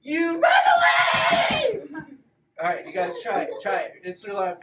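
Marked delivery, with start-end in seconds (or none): 0.0-1.8 very high, loud, slow run away; weird-voiced shout. Shown as a demonstration. Teacher shows the kids the right way, in a silly scream. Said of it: "I did it in a weird voice".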